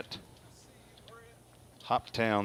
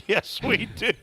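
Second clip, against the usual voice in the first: laughing; 11 semitones higher than usual. Real, not acted. Laughing reply after singing.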